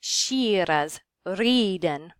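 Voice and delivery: "shearas, riden" with the I as in cheese; Middle English I. Shown as a demonstration. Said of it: "moving on to the I's".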